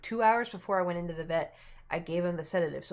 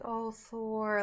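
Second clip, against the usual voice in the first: high, pitying coo; cooing sympathy; 4 semitones higher than usual. Retold or imitated. Friends petting a sick cat, cooing sympathy. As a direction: imitate friends fussing over a poorly pet.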